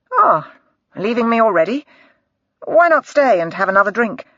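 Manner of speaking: a hint of a smooth doctor pressing her to stay; Harker.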